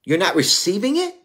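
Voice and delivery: high, loud indignant protest; angry Cain. Retold or imitated. Cain protesting to the Lord, high and loud. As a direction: hurl the complaint at God as Cain. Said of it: "Cain, when Cain brought his offering".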